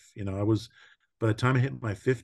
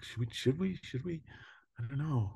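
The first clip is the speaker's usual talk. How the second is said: hesitant mock dither; 4 semitones higher, 8 dB quieter than usual. Retold hesitant couple.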